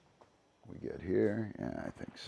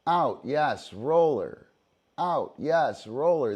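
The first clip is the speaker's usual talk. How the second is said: marker call; 3 semitones higher, 4 dB louder, slower than usual. Shown as a demonstration. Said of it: "the dog goes and gets the roller".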